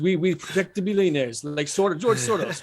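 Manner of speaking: lightly put-on Russian accent; imperfect Russian accent. Guest voicing protectors of billionaires, rough Russian accent. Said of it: "the Russian one. I need to perfect that".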